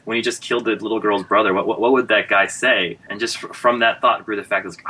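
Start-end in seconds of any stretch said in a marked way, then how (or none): 0.0-3.0 excited. Retold or imitated. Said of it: "And I said".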